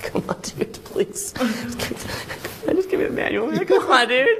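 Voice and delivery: soft, breathy begging; meek whispered begging; whispered pleading. Retold or imitated. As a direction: plead under your breath. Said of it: "most guys are like".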